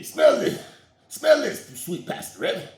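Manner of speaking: high, loud squeaky pastor voice; the pastor squeals at his friend to smell his finger; mock high squeal. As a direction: shriek it like a prankster.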